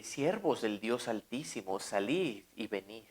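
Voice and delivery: a king softened to respect, slow and hushed; respectful. Retold or imitated. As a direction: speak to them with new reverence. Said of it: "les habló con respeto".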